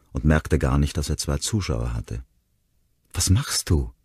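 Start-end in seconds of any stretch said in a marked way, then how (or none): 3.1-3.9 gerufen. Acted. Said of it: "rief Ronnie".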